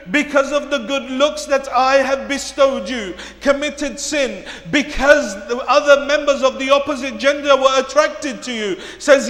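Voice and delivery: forceful sermon delivery, projected and driving; loud, dramatic retelling from the pulpit; impassioned preaching. Acted. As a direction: preach it out to the whole congregation.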